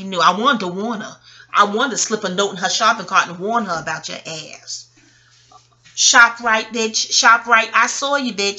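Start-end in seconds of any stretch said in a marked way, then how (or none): 5.9-8.6 calling out. Retold or imitated. Calling out an ex he spotted.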